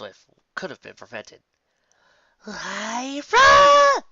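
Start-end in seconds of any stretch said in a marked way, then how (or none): 2.4-4.0 loud, high, drawn-out call. Acted. Bon Bon calling Lyra to the kitchen, loud. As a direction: call her name across the house. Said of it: "exclaimed Bon Bon".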